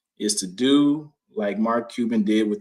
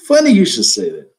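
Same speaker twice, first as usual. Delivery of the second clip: louder repeat; 8 dB louder than usual. Real, not acted.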